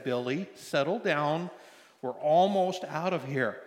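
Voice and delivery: slow, measured reassurance; lightly voiced father keeping his cool; low, steady voice. Dad to screaming kid in store, slow and steady. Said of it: "in a very low voice, steady voice".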